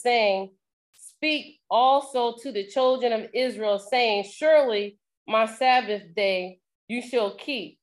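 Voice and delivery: slow, measured Bible reading; scripture reading. Acted. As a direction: read the verse out solemnly, phrase by phrase. Reads scripture aloud.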